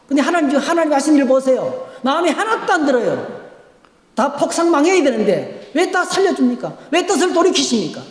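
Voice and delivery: high, scoffing complaint to God; sulking Jonah. Retold or imitated. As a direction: sneer at God like a sulking prophet. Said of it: "이거 하나님 비웃는 거예요".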